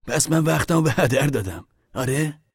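high, loud sarcastic challenge; angry retort. A narrator's reading. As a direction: snipe back in a lovers' quarrel. Quarrel continues.

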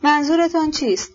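sharp, high threatening question; sharp threat. A narrator's reading. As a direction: snap the question, menacing. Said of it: "با لحنی که تهدید در آن بود به تندی پرسید".

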